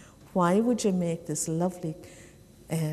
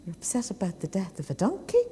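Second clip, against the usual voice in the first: quick, incredulous question; lightly acted disbelief; puzzled disbelief; faster than usual. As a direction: ask it fast, mildly baffled. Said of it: "the man thought this was very, very strange".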